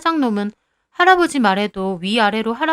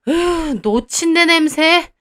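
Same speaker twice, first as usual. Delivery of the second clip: slow, higher mocking groan of disgust; disgusted sneer; 5 semitones higher, 3 dB louder, much slower than usual. Owner mocking the grandfather's smell behind his back, slow disgusted sneer. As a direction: hold your nose and sneer.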